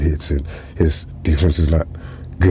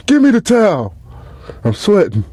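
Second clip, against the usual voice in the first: mock coach; 13 semitones higher than usual. Coach refusing towel.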